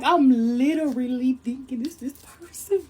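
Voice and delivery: slow, stretched-out whisper; hushed disbelief. Retold or imitated. Storyteller confiding her mistake, hushed disbelief. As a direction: whisper it slowly, word by word.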